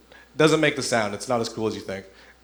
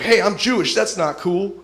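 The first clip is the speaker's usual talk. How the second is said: acted higher-pitched objection; confrontational; 7 semitones higher, 3 dB louder than usual. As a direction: confront him, mildly raised voice. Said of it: "gets up in his face".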